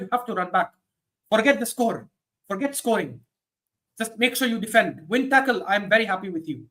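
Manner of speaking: imitating a manager with a lightly Mexican accent; attempted Spanish accent slipping into Mexican; accidental Mexican accent. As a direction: instruct a player in a hint of a Mexican accent. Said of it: "I don't know why that came out Mexican".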